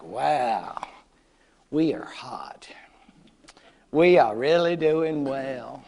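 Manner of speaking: low, hushed, smug boast; smug Germans. Retold or imitated. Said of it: "the Germans are going like".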